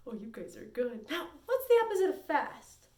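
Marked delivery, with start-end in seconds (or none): none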